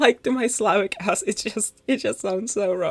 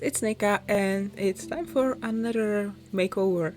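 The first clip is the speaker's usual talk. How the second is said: talking around a mint candy; words slightly blurred by a candy in the mouth; mouth full. Real, not acted. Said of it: "I have a candy in my mouth".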